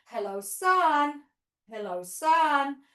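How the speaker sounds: put-on cheerful kids' yoga chant, drawn out; sing-song kids' greeting. Shown as a demonstration. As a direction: greet the sun like a children's teacher. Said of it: "we can do this one more time".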